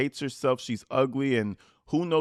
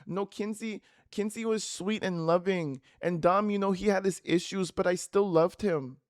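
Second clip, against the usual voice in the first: mocking the mother; 5 semitones higher than usual. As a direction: coo it like a sweet-talking mom. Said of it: "Natalie's gonna say".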